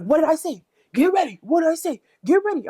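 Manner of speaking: high, loud mocking imitation of a rapper.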